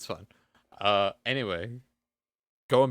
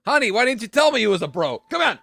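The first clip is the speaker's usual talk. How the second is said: high, loud, fast and hammy; delighted Dragonborn; 11 semitones higher, 7 dB louder, faster than usual. Acted. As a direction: welcome him like a long-lost bro.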